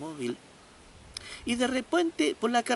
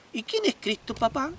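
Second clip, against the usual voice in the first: put-on child voice; 6 semitones higher than usual. Boy keeps asking father.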